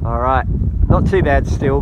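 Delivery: muffled by a hand over the mic; finger over mic. Real, not acted. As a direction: hand covering the microphone. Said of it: "I'll cover the mic with my hand there".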